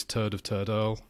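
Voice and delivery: 'Toad of Toad Hall' with Hull vowels, like 'turd'; Hull accent. Shown as a demonstration. Best example of the accent for a co-host, Hull accent. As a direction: Hull accent, long 'o' turned to 'er'. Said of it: "The Hull accent's easy to do".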